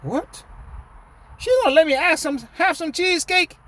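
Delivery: high, fast, excited disbelief; surprised uncle. Retold or imitated. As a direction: squeal it out like a thrilled uncle. Uncle voiced in story, surprised.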